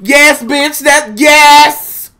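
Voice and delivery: high, loud startled gasp into sing-song; mock shock. Reacting to the scale's number, high shocked sing-song. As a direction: squeal then sing the yes. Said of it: "I'll be like".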